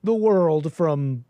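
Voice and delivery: high-pitched mock desperate pleading; mock weeping plea. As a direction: imitate a tearful man begging, hammed-up and high. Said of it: "and he's crying, he's weeping".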